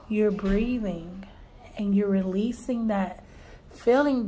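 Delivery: soothing reassurance. Real, not acted. Teacher soothing a crying little girl, soft and gentle. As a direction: ease her down, quiet and kind.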